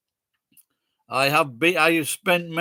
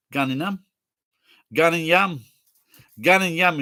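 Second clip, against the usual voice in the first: lightly put-on Geordie dialect; Geordie accent; 3 dB louder than usual. Shown as a demonstration. Streamer showing how Geordies say going home, Geordie accent. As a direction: say it with a Geordie lilt. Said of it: "do it like a Geordie accent".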